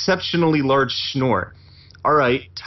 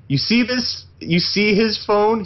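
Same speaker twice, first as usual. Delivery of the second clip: mock angry confrontation; 6 semitones higher, slower than usual. Angry at wife.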